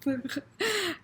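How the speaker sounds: high burbling laugh-like noise; giddy, lovestruck sputter; flustered brainless noise. Retold or imitated. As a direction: babble as if all thought is gone. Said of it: "all thoughts were, like, gone".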